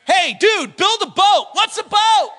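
high, punchy mock conversation; casual command, then baffled question; hammed-up back-and-forth; lightly acted comic dialogue. Acts out God and Noah exchange.

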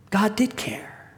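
slow, hushed whisper of wonder. Real, not acted. Preacher recalls realizing God cared, slow whisper. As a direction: let it fall out slowly, barely voiced.

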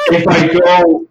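laughing through the words; can't stop laughing while telling it. Real, not acted. Laughing at own embarrassing story.

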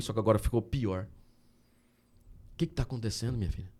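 hushed reassurance to a distressed woman; gentle comforting. Retold or imitated. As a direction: speak low and tender, like consoling someone. Retold comforting talk to woman.

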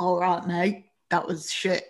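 badly faked English lad accent; a rough go at an English mate's accent; botched English accent. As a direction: butcher an English laddish accent. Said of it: "gonna butcher the accent".

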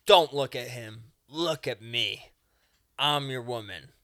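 mock-domineering loud demand; possessive dominatrix. Acted dominatrix commanding customer.

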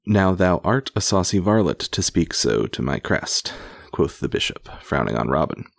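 measured, emphatic read-aloud storytelling; projected storybook reading; story narration. A narrator's reading. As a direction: read an old tale aloud with relish. Reads an old tale aloud.

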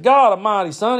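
high, loud exasperated outburst; scolding uncle Brad. Retold or imitated. Uncle after cousin botches the job, exasperated scolding. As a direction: imitate an uncle at his wit's end. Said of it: "Brad would be getting on to him".

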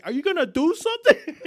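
high, loud mock scolding; hammed-up loud nagging demand; demanding mother. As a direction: imitate a fed-up mom ordering dad to act. Imitates mom demanding dad discipline kids.

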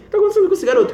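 high, puzzled mock passerby; a lightly laughing, high-pitched what's with this kid; passerby wondering. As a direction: lift it up like a curious stranger. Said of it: "e tipo assim".

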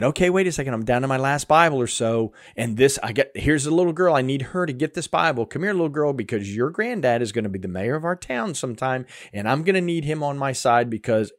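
a teasing send-up of a calculating missionary; mock scheming missionary. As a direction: play the missionary as a sly schemer.

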